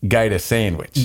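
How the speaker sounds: a mock Australian "Gator sandwich", lightly done; Australian accent. Showing off his shaky Australian accent to the hosts, mock Australian. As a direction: say "Gator sandwich" like a bad Aussie. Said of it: "my accent is not as good as I think it is".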